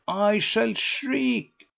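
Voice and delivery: a hammed-up cry of frustration; mock exasperation. A narrator's reading. Lady Busshe exasperated by the riddle, mock despair. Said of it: "came from Lady Busshe".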